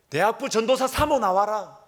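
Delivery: high, loud imitation of a furious mother; mock bellowed summons, drawn high; retold angry yell. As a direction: holler it out like someone demanding a showdown. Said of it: "고함을 치는 것입니다".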